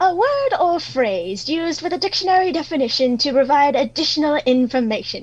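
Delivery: condescending posh tone. Reading a dictionary definition aloud after being urged: posh condescending tone. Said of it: "that was some high-level posh right there".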